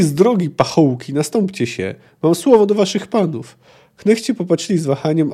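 expressive novel reading with lively dialogue; storyteller acting out the dialogue; story narration. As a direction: read the excerpt aloud, animating each quote. Reads a novel excerpt aloud.

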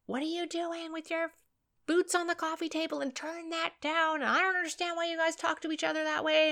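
nagging mother. Retold or imitated. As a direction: play the fed-up mum scolding. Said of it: "she would normally come in and say".

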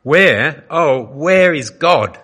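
trembling man wailing for God in the night. A narrator's reading. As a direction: wail it out, drawn out and trembling. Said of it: "wailed into the nebulous night".

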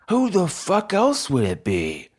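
high-pitched angry comeback; exasperated retort. Acted. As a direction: throw it back in sharp exasperation. Quarrel between robbers.

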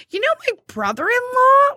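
quoted coworker. Retold or imitated. Coworker voiced in story, high.

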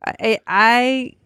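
one word at a time; halting, word by word; staccato. Acted. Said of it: "why do you have to say everything one word at a time".

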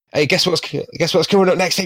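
rising, breathy hype; breathless excitement. Acted. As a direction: gush like a game show teaser. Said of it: "I'm just gonna do an excited sound".

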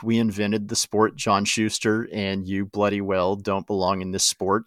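a lightly put-on, horrible Scottish accent; hint of a hammy Scottish villain; mock Scottish accent, barely done; bad Scottish accent. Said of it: "in just a horrible Scottish accent".

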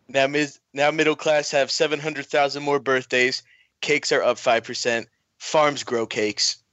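lightly voiced Trump speech; a hint of Trump at a podium; mild mock presidential address; Trump impression. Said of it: "I'll give it a shot".

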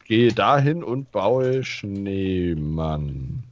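langsame, gedehnte Wichtelstimme; tiefe Stimme. Acted. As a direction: gewichtig wie ein Waldwichtel. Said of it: "spricht mit tiefer Stimme". (tiefe Wichtelstimme, langsam)

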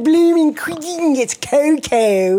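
high, slow, hammed-up Cockney; bad Cockney accent. Friend redoing the corrected cocoa line, bad Cockney. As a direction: stretch it out in a terrible Cockney squawk. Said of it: "my impression of a bad accent".

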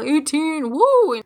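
a little whoop on woo; mock cheer. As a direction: cheer like a birthday party. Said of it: "be like".

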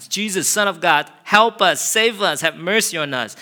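high, loud crying out; desperate cry. Acted. Lepers crying to the Messiah, loud desperate plea. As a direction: cry out for mercy.

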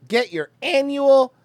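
high, slow, loud slogan; mock announcer. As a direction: belt the slogan slowly, high up. Mocking the official slogan.

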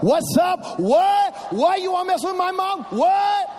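put-on high, loud boy's challenge; mock tough-kid shout from the van; kid yelling. Boy shouting at the thieves from the van. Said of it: "I'm like".

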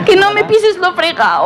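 put-on high, slow comic girl voice. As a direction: squeak it out like a fussy girl. Girl's comic plea, high voice.

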